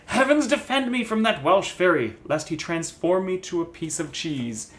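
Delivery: a touch of theatrical exclamation; Falstaff. Acted. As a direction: read it like a dramatic Shakespeare cry.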